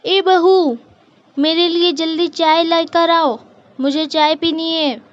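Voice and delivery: loud, impatient summons to the daughter-in-law; demanding household matriarch, calling out sharply; bossy mother-in-law. Acted. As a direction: order her about like a stern mother-in-law.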